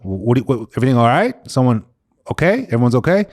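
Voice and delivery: stammered start, questions leaping upward; acted worried checking, a touch of panic; retold alarm. Patient waking to the nurse's message, worried questioning.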